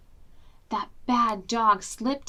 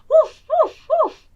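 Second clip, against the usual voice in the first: high, loud dog barks; loud barking; 12 dB louder than usual. Acted. Dog giving himself away to Granny, barking loud. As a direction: bark it out like a big dog. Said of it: "barked Mister Dog".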